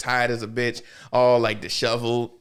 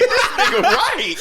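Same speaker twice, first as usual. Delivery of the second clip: very high, slow, cracking with laughter; laughing agreement; 5 dB louder, slower than usual. Retold or imitated. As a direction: agree while falling apart laughing.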